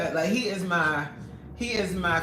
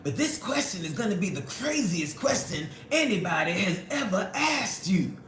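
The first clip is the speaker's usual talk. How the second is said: mocking Supreme. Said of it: "He loved to be like".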